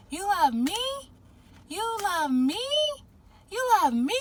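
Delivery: put-on high little-girl voice asking again and again; a two-year-old begging to hear it; imitating toddler. Retelling a video, voices the toddler asking dad, high and pleading. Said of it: "and she's like".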